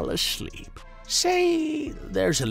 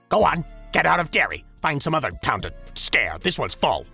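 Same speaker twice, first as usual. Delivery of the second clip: brisk dismissal; 3 semitones lower, 3 dB louder, faster than usual. Acted. Shooing creature away.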